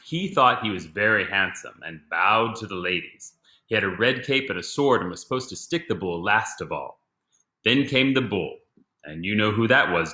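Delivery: gentle read-aloud storytelling; story narration. A narrator's reading. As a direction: read it like a children's book. Reads picture book aloud.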